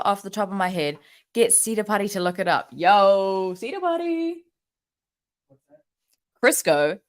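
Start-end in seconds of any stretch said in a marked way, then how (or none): 2.7-4.4 high call across the room. Real, not acted. Calling out to someone nearby.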